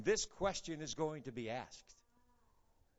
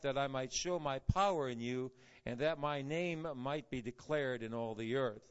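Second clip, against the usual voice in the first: measured, solemn Bible reading; scripture reading; 3 semitones lower than usual. Acted. Reads the scripture text aloud.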